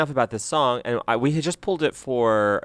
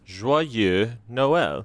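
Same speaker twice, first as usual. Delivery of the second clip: attempted French pronunciation; French accent. Shown as a demonstration. Host trying Merry Christmas in French, French accent. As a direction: give it a careful French accent. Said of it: "What was wrong with my accent".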